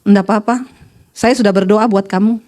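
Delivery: low, calm imitation of the wife; unbothered wife. Wife calmly answers her puzzled husband. (istri menjawab tenang, suara rendah)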